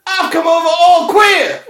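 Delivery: high, loud Frank Spencer whine; Frank Spencer catchphrase. Retold or imitated. Mates riffing on the sitcom, high flustered whine.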